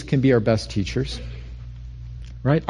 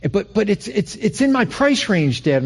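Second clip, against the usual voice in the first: put-on higher, eager kid pitching his dad; eager pleading; 5 semitones higher than usual. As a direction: sell dad on the car, lightly voiced. Young self pleading with dad.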